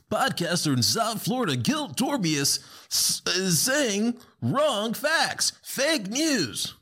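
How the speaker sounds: high, slow announcer voice mocking a headline; hammed-up breaking news read; mock news anchor. Podcaster mocking a news headline about himself, high slow anchor voice.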